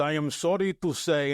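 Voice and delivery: imitating a Belarusian official's English; heavy Belarusian accent. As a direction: put on a light Eastern European accent. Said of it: "in his heavy accent".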